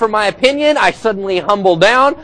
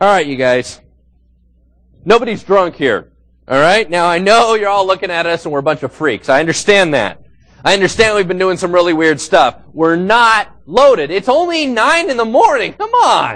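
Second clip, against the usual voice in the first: usual speaking voice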